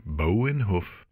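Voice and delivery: ordinary delivery, nothing marked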